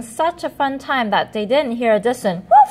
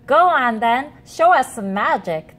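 chortled; 2 semitones higher, 3 dB louder than usual. Acted. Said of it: "they chortled".

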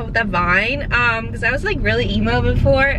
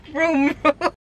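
mock engine noise; 4 semitones higher than usual. Playful car noise in car.

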